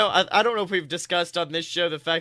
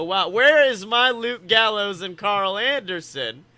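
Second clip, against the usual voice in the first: imitating the crowd; 4 semitones higher, 6 dB louder than usual. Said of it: "the crowd will actually go".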